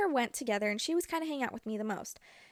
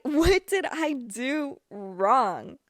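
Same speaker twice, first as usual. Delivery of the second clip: laughing disbelief; 6 dB louder, much slower than usual. Retold or imitated. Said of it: "And I was like".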